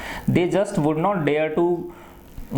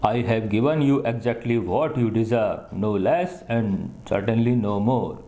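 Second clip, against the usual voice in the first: imitating a gentle, throaty voice; 3 semitones lower, much slower than usual. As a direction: mimic the teacher gently from the throat, slow. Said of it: "Imitating a very gentle, rather throaty voice". (धीमी, गले से भारी आवाज़ में teacher की नकल)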